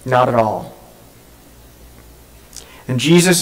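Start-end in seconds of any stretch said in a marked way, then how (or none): 0.0-0.7 firm denial, dropping after a pause; mildly heated, retold refusal to admit it; emphatic denial. Peter curses and denies knowing Jesus, mildly heated denial. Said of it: "curses the man and says".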